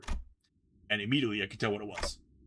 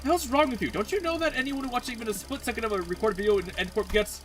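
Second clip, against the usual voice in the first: sleepy voice; 4 semitones higher than usual. Acted. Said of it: "A sleepy voice breaks through the darkness".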